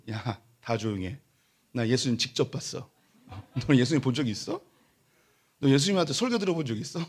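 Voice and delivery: smug, swaggering boast; cocky bragging. Retold or imitated. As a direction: lord it over the others. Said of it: "막 하면서 하는 거죠". (다른 신자들에게 으스대며 뽐내는 말투)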